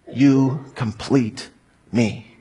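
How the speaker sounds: slow, drawn-out movie line; lightly voiced Tom Cruise, stretching it out; a hint of Tom Cruise, very slow; Tom Cruise impression. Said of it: "That's my best Tom Cruise impression".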